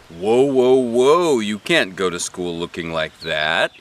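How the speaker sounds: loud, alarmed grandpa voice; startled grandpa. A narrator's reading. Grandpa stopping Junie B at the kitchen door, loud alarm. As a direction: pull her up short like a startled grandpa. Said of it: "he said".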